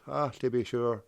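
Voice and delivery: softly put-on Irish; poor Irish accent. Joking after a failed search, poor Irish accent. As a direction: murmur it in a mock Irish brogue. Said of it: "Sorry for my poor Irish accent".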